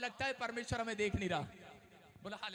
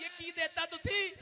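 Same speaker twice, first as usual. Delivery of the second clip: mock angry husband; 5 semitones higher, slower than usual. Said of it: "पति phone करता है".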